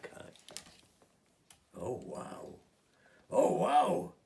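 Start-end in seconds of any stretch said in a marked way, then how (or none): 3.3-4.1 very high, loud burst of wonder; amazed squeal. Acted. Olivia sees the fairies, a very high loud amazed wow. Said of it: "That's all Olivia could say".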